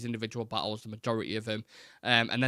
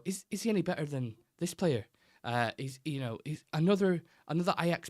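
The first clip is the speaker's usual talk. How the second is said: put-on Graham Souness accent; 4 semitones higher than usual. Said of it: "I can't do a Graham Souness accent".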